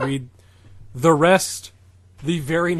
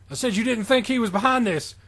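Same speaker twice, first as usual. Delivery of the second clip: exasperated repeat; 8 semitones higher than usual. Acted. Character repeats himself.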